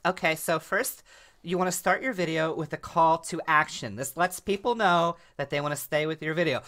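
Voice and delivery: lightly voiced social media tutorial girl; a hint of influencer explainer girl; how-to video girl. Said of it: "a girl that speaks like this".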